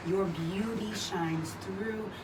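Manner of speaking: praying aloud during a wall sit. Acted. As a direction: pray while holding a wall sit. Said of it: "let us pray".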